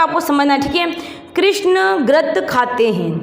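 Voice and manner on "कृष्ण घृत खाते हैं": very slow, syllable by syllable; slow model reading. Shown as a demonstration. Teacher to pupils, slow dictation reading. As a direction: read it out slowly for the class to copy. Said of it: "तो पढ़ो मेरे साथ साथ".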